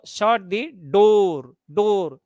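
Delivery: "door" drawn out with a rising tone; slow request, stretching and lifting "door". Shown as a demonstration. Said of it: "Here you are using rising intonation".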